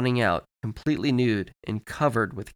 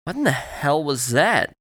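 higher, startled question; alarmed disbelief; 4 semitones higher, 4 dB louder than usual. Acted. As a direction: demand an answer in disbelief. Startled man questions strange broadcast.

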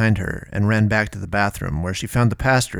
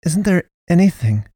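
high, desperate; pleading Naomi; 9 semitones higher, 4 dB louder than usual. A narrator's reading. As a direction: beg for a way out.

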